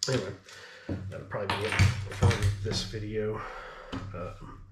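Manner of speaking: breathless, winded delivery; out of breath. Real, not acted. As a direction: talk while short of breath. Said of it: "sorry, I'm out of breath".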